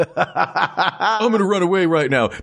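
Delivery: high, slow cackling witch; Wicked Witch voice. Retold or imitated. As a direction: draw it out like a cartoon witch. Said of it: "It almost sounds like the Wicked Witch".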